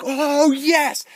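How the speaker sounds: loud, high whoop of delight; thrilled cheer. Retold or imitated. Viewer seeing Godzilla at last, thrilled shout. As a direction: cheer it like an elated fan.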